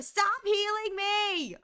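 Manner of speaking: high, slow, stretched-out cry; exasperated outburst. Real, not acted. Streamer wants to lose the battle, exasperated wail. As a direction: wail each word at the game.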